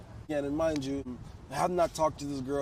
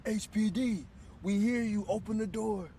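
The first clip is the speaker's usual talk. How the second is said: mock cop call; 7 semitones higher than usual. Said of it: "I hear".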